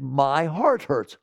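drawn-out my heart hurts; slow mock lament. Quoting the listener's complaint, slow and drawn out. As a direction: stretch it out, mock sorrow. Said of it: "You said".

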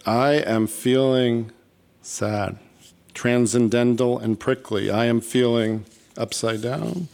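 slow, deliberate poetry delivery; poem reading. Acted. Host reading audience feeling cards as a poem, measured recital. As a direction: read it slowly, line by measured line. Reads index-card poem aloud.

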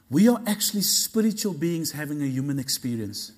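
deliberate, settled teaching tone; measured statement. Shown as a demonstration. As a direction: state it calmly, letting it land. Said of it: "Let me say that again".

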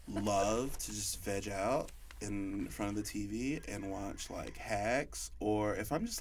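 put-on ditzy Valley Girl gushing about TV. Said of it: "In your best Valley Girl voice".

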